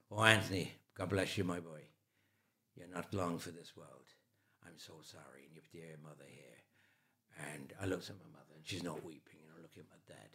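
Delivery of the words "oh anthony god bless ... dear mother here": put-on Irish accent. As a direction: give a gentle Irish-accented blessing, trailing away quietly. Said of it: "He was an Irishman, so I'll give it to you".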